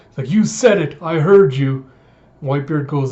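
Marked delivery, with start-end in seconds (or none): 0.3-1.8 insistent shout. Retold or imitated. Man on the chain shouting up to captain, insistent. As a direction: yell it up to hold him to it.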